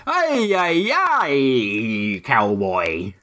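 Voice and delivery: hammed-up Southern drawl; mock Alabama accent. Doing an Alabama accent because his co-host demands it, hammed-up drawl. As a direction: Alabama cowboy voice, put on for a laugh. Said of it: "I need Alabama accents".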